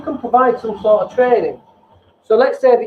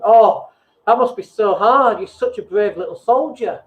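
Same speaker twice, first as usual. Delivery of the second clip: condescending. Shown as a demonstration. Coach failing at empathy, sounding patronising. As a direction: talk down to them like a child. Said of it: "without sounding really condescending".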